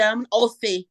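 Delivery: put-on light Aussie accent, set against the Kiwi take; imitating an Australian, lightly. Showing a cohost the Aussie side, in a light Australian accent. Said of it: "you actually did hit the tweaks of both".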